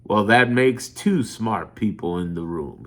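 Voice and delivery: low, slow, dry preacher joke; low, slow preacher's wry remark; preacher's quip. Retold or imitated. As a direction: drop the voice for a sly quip. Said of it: "he looks over at her and says".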